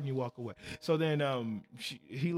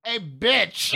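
mock yell; 4 semitones higher, 5 dB louder than usual. Tyler yells from car window.

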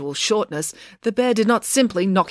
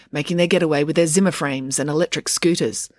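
usual speaking voice

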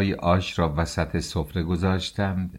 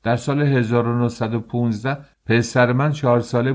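higher and louder, stressing من; outraged shout; 5 semitones higher, 4 dB louder than usual. Acted. Father throws the official's date back at him, shouting. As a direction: insist hotly on the date. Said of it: "فریاد کشید".

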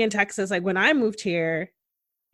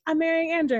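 mock excited announcement; 8 semitones higher than usual. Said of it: "when you're like".

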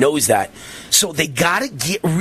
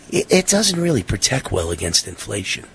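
calm, soothing voice; 6 semitones lower than usual. Retold or imitated. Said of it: "in a really calm, soothing voice".

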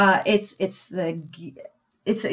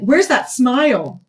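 slow, louder street catcall; catcalling guy; 4 semitones higher, 5 dB louder, slower than usual. Retold or imitated. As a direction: imitate a man calling out on the street, pitched up. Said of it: "a guy's like".

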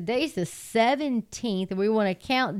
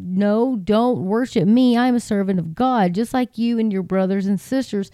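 scripture reading. Acted. Preacher reads Revelation to his online congregation, ringing and proclaiming.

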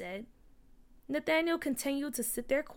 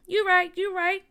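emphatic agreement; 7 semitones higher, 8 dB louder than usual. A narrator's reading. Peach heartily agrees with friend.

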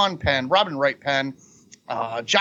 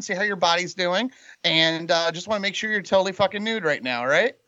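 a lightly put-on caller voice, raised a little; prank voicemail voice; 3 semitones higher than usual. Prank caller leaving a voicemail for Brian, lightly put-on voice. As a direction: leave a cheeky voicemail in a slightly raised put-on voice. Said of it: "I have no fucking idea who the hell that was".

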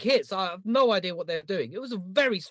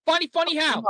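higher-pitched gangster impression; Joe Pesci; 6 semitones higher, 3 dB louder than usual. Host demonstrating a film-star accent, higher and put-on. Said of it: "any good Joe Pesci accents?".

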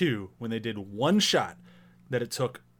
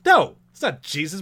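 higher, indignant correction; mock offended; 3 semitones higher, 4 dB louder than usual. Co-host as minister rejecting the Jesus guess, mock offended. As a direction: correct a wrong guess, acting affronted. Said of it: "he's so offended at her guessing the wrong answer".

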